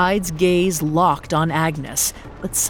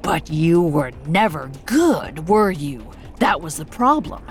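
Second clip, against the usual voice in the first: snide Hyde. Acted. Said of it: "the snide voice that rambled on".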